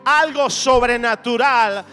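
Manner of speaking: impassioned preacher rallying the congregation; fervent preaching. Real, not acted. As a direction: preach with driving, rhythmic conviction, building through repeated phrases. Predica con fuerza ante la congregación. (prédica ferviente y enérgica)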